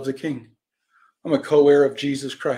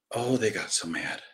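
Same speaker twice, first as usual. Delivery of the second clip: low, softer remark; understated aside; 5 semitones lower, 6 dB quieter than usual. Real, not acted. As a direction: drop it down, almost to yourself. First take, understated aside.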